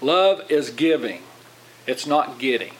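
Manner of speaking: slow, deliberate teaching pace; slow down and let each word land; measured, unhurried emphasis. Real, not acted. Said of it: "let me slow down a little bit".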